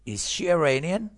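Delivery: slow, loud question rising high on "Iranian"; rising intonation. Shown as a demonstration. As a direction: stretch it out and climb on "Iranian". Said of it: "پس تون صدا میره بالا".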